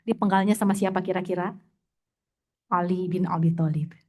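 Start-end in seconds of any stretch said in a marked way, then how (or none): 2.7-4.0 a whispered reveal; hushed whisper. Real, not acted. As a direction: whisper the name dramatically. Revealing the executioner.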